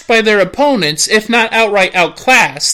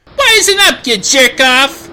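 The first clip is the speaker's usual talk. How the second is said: angry tough guy; 4 semitones higher than usual. Acted. Persona shouts back.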